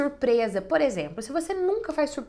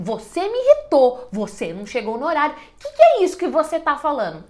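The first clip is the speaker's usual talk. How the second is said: higher, louder, irritated scolding; aggressive tone; 4 semitones higher, 6 dB louder than usual. Shown as a demonstration. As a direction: snap at them like you're fed up. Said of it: "com um tom de voz agressivo".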